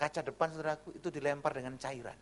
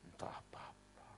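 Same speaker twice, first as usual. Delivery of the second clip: pasrah ala Jawa. Retold or imitated. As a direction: murmur it meekly like an unbothered Javanese man. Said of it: "Enaknya orang Jawa gitu". (pasrah pelan ala orang Jawa)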